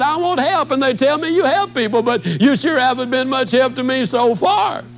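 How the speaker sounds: a touch of her huffy retort; indignant woman. Retold or imitated. Woman scolding the speaker for no help, lightly indignant.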